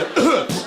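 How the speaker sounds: forced high cough; covering cough. Shown as a demonstration. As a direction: cough to hide a noise. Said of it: "you try to cough over the fart".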